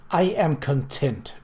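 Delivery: pious. Acted. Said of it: "she said piously".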